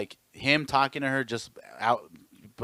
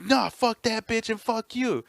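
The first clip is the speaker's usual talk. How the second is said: high, slow sneering mock of the rude guy; 11 semitones higher, slower than usual. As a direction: ham up the punk's insult. Mocking the rude man.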